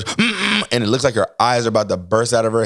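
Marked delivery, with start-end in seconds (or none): 0.0-0.7 mock straining grunt. Imitates wife straining to hold push.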